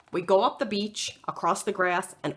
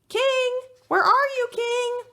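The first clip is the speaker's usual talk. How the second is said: calling out; 4 dB louder than usual. Acted. Kayla calling for lost dog.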